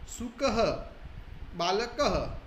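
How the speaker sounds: slow recitation, visarga sounded on every word; visarga demo. Shown as a demonstration. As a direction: echo "aha" after शुकः and बालकः. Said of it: "केवल ह ही बोल रहा हूँ".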